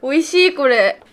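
talking while chewing; mouth partly full. Real, not acted. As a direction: between bites of noodles. Seen 1: Holds lifted noodles, speaking between bites, likely chewing.

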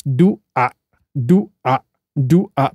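"do a" split into two syllables, do ... a; sounding out words. Shown as a demonstration. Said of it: "break it down to syllables like this".

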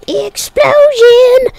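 breathy unvoiced whisper, slow. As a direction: hiss it like a secret. Repeat in other manner.

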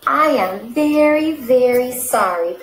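a touch of breathlessness after rushing; slow, panting apology; out of breath. Acted. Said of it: "panted Snail, quite out of breath".

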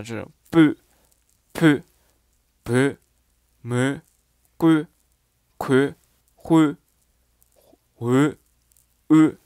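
each example syllable said slowly and separately; dialect readings. Shown as a demonstration. Teacher reads dialect words to the learners, carefully. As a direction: read the dialect sounds out one by one. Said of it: "我来读一下".

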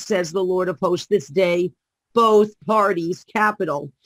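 measured, solemn prophetic reading; prophecy reading. Acted. Guest reads the prophecy to the host, solemn. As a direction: declare it as the Lord's own word.

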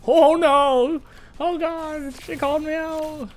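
high, loud alarmed exclamation; shocked and loud; excited shout. Real, not acted. Caught out by an opponent.

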